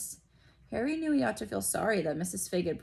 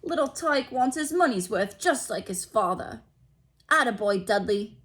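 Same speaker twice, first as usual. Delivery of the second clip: chuckling father; 3 semitones higher, 5 dB louder than usual. A narrator's reading. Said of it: "Uncle Vernon chuckled".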